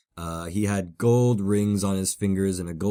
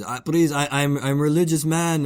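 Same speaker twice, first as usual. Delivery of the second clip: higher-pitched, stammered imitation of pleading; mock emotional plea; 5 semitones higher than usual. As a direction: plead like an overwrought stranger, lightly acted. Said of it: "emotional at this point".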